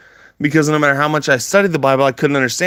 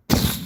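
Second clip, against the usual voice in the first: mind-blown pfft; 4 dB quieter than usual. Retold or imitated. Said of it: "My mind went".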